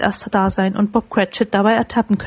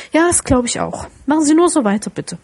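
mock stern sarcasm; 6 semitones higher than usual. A narrator's reading. Scrooge mock-scolding late clerk.

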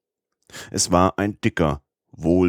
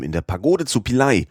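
impetuous outburst. Acted. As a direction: rush it out hotly, no holding back. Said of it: "rief Passepartout ungestüm".

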